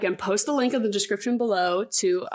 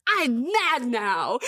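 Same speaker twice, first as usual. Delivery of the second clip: mock anger; 3 semitones higher, much slower than usual. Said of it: "storms away".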